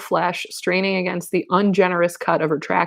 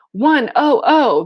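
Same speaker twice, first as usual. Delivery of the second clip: high, louder, drawn-out cheer; jubilant cry; 8 semitones higher, 5 dB louder, slower than usual. A narrator's reading. Campers answering their leader, jubilant cry. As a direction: cry it slowly like a crowd chant. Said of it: "they cried jubilantly".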